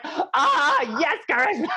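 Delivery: high, laughing cheer of glee; gleeful laughing reaction; delighted gasp. Retold or imitated. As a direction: squeal her name with a laugh.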